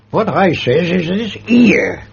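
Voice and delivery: a hint of a shuffling old school porter, drawn out; Gosling the porter. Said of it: "That went right off to Gosling".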